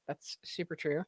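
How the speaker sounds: hoarse, scratchy throat. Real, not acted. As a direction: speak through a scratchy voice. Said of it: "I have a super scratchy voice".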